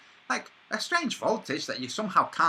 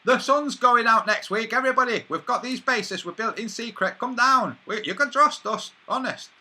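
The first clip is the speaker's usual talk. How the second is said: louder, a hammed-up official broadcast; louder mock announcement telling the nation to come down; mock public announcement; 4 semitones higher, 5 dB louder than usual. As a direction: call it out to everyone like a shaky government notice. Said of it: "say announcements".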